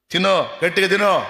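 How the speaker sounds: hammed-up doctor telling her to eat properly; mock doctor's order.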